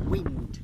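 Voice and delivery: breathy high whistle of wind; whispered, gusting wind sound; airy whooshing wind. Shown as a demonstration. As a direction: let the word become the wind itself. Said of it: "everlasting road with wind".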